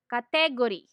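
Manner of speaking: "category" with Filipino stress, ka-TE-go-ri; Filipino mispronunciation. Shown as a demonstration. Teacher lists commonly mispronounced words, "category" as ka-TE-go-ri. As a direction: hit the second syllable of "category". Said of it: "commonly mispronounced words".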